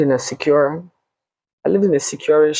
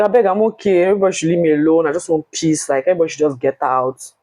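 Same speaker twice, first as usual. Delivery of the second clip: exasperated; 3 semitones higher, faster than usual. Retold or imitated. Reluctant, retold exasperation.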